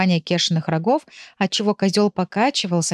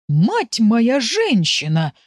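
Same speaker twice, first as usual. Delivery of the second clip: slow, drawn-out gasp of amazement; stunned exclamation; 4 semitones higher, much slower than usual. Acted. Fyodor seeing the giant rabbit, slow stunned exclamation. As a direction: stretch it out in disbelief. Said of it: "только и мог сказать Фёдор".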